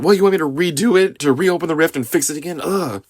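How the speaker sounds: hammed-up annoyed scientist voice; Mister Terrific snapping at Clark, mock upset. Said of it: "made Mister Terrific kind of upset".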